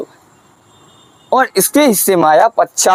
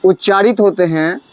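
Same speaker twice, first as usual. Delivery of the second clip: slow dictation, long pauses between words; slow dictating teacher; dictation pace; 2 semitones higher, slower than usual. Shown as a demonstration. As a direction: spell it out slowly for students to write. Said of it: "तो लिखिए".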